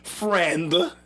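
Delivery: drawn-out air-quoted word; air quotes. Shown as a demonstration. Repeating the doubted word to a co-host, in air quotes. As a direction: say it as if in quote marks. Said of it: "I'm doing quotation marks".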